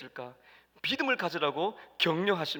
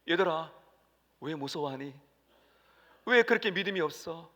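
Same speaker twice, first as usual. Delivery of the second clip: gentle question. Acted. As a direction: ask the children tenderly. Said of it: "질문하셨습니다".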